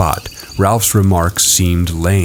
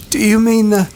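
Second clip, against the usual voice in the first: put-on higher boyish voice. A narrator's reading. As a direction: voice a young boy. Boy character voice.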